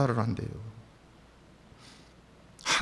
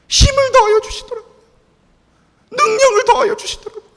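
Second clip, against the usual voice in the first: much higher, louder fervent preaching; preaching climax; 11 semitones higher, 6 dB louder than usual. Acted. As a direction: soar with fervent conviction. (고조된 열정으로 외치듯 설교)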